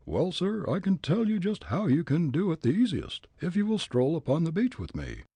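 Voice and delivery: put-on loud, high, blustering old gent; gruff angry old man. Old gent challenging Fritz, gruff and angry.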